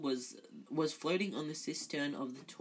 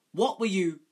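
shocked; 4 semitones higher, 10 dB louder than usual. Acted. Percy shocked, scolding.

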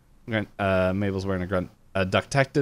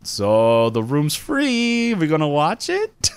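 Grenda voice; 5 semitones higher, 4 dB louder, slower than usual. Retold or imitated. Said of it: "Grenda's like".

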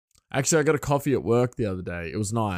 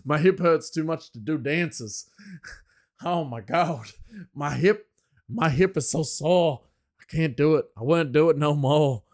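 higher, louder hammed-up moan; mock whining; 6 semitones higher, 3 dB louder than usual. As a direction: play up the sore hip with a whine. Mock complaint about sore hip.

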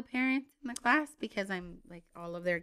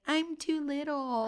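put-on whiny toddler voice; 5 semitones higher, slower than usual. Small son whining, imitated.

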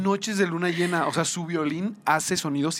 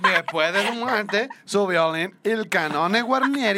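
put-on slow, louder Puerto Rican accent; 4 semitones higher, 3 dB louder, slower than usual. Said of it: "con acento de Puerto Rico".

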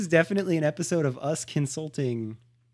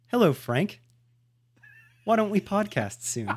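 mock infomercial pitch; commercial announcer. Podcaster pitching awkward emphasis to pals, mock commercial read. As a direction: sell a silly product like a TV announcer. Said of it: "I actually could do, like, a good".

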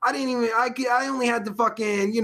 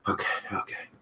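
whispered self-soothing; calming whisper; 11 semitones lower, 9 dB quieter, faster than usual. Real, not acted. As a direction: breathe it out to settle yourself. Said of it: "All right, I'm better".

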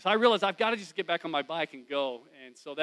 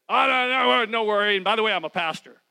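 much higher and louder, hammed-up cheer; mock breezy reassurance; 5 semitones higher, 12 dB louder than usual. Pastor pretending to answer the lady who overheard, mock cheerful. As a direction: brush it off with fake brightness. Mock reply he wished he'd said.

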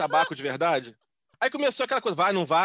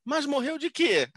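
mother's question; 8 semitones higher, slower than usual. Retold or imitated. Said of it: "minha mãe faz a segunda pergunta".

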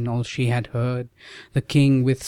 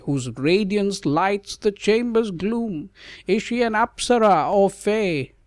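marvelling; 8 semitones higher than usual. Acted. Sage marvels at Savitri.

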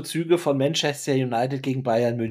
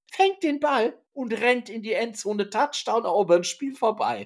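touchdown call; 7 semitones higher than usual. Retold or imitated. Retelling the winning touchdown play.

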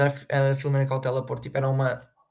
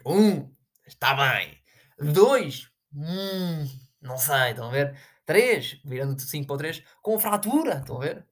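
Jorge Jesus impression; slower than usual. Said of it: "isso vai agora Jorge Jesus".

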